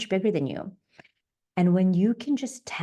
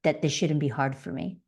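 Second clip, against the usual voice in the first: gentle self-noting; 4 semitones lower than usual. Shown as a demonstration. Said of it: "and then you can say".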